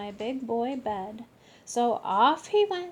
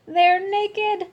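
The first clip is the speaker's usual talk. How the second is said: giggling; 9 semitones higher, 8 dB louder than usual. Acted.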